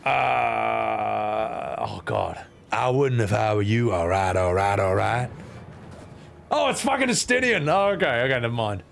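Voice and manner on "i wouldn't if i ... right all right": low, laid-back character voice; low, relaxed voice; corrected character voice. Acted. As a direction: drop it lower and roll it out evenly. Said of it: "Oh, wait, wrong voice".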